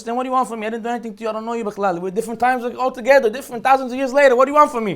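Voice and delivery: a hint of an annoyed Pharaoh waving him away; Paro dismissive. Paro answers Haman.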